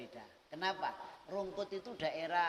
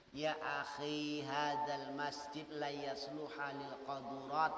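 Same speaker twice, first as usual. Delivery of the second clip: gentle advice; 2 semitones lower, slower than usual. Retold or imitated. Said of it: "dinasehati dengan lemah lembut".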